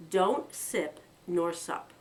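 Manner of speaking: slow warning. Acted. Pretty's slow solemn warning.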